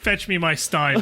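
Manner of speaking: slow, laughing fake German; hammed-up German lord demanding his stein; mock German accent. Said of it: "talking in racist German accents".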